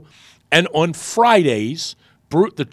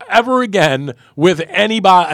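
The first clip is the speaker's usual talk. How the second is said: raised, emphatic mock reprimand; retold scolding; 4 semitones higher, 5 dB louder than usual. Host imitating the GM's warning about salaries, raised-voice scolding. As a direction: finish off the boss's warning firmly. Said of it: "totally roasted me".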